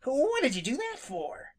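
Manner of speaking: high indignant demand. Acted. Startled rabbit demanding an answer of Jimmy, high and indignant. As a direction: snap it out, offended. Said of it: "demanded Peter indignantly".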